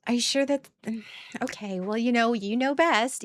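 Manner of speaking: high, sweet, hesitant pushover voice; a sugary, unsure hint of a people-pleaser; mock deferential girlfriend. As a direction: play the yielding partner, sugary and unsure. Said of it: "I'm going".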